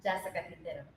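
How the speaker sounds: Jessica Quintero with a Spanish accent; Spanish-accented name. Real, not acted. Introducing herself to new listeners, Spanish-accented name. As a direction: say the name with Latin pronunciation. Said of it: "never say it like that".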